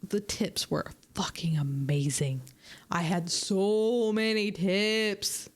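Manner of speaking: secretive whisper about the tips. Real, not acted. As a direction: breathe it like a secret. Excited aside about tips.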